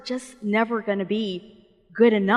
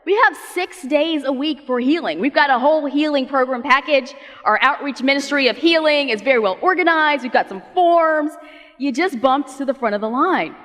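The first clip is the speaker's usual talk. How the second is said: outraged yelling; 3 semitones higher than usual. Retold or imitated. Synagogue leader scolding the healed woman, mock outrage. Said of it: "He starts yelling".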